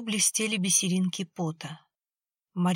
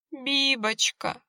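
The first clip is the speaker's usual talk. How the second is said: slow, higher tearful wail; sobbing; 6 semitones higher, much slower than usual. A narrator's reading. Owner sobs for her lost dog, wailing. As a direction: cry out the dog's name through tears. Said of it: "всхлипывала Маргарита".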